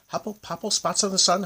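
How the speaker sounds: high wailing howl; howled spell. A narrator's reading. Hinchati in despair over the magic, howling. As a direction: howl the words in distress. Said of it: "howled Hinchati".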